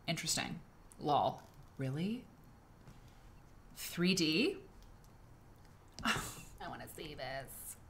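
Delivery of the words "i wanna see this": laughing. Real, not acted. Laughs at 3D quilt.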